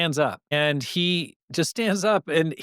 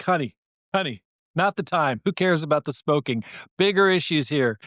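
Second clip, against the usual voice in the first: ordinary talk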